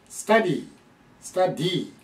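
スタディ with a long stressed "dee"; long final vowel. Shown as a demonstration. Teacher telling learners to finish the word, スタディ with long ending. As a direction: stretch the end of スタディ out fully. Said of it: "長いですよね".

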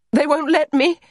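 high, loud mocking lilt; taunting, pitched well above normal. A narrator's reading. Allegra excuses her broken-off playing to Maisie, mockingly. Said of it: "laughed mockingly".

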